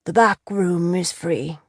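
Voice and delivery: slow, grudging; resigned. Acted. Innkeeper grudgingly lets the lord use the room, slowly. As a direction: give in reluctantly. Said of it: "nodded as if resigned".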